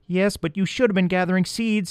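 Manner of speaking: high, tiny mouse voice; little field mouse chattering; squeaky mouse voice. A narrator's reading. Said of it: "said the first".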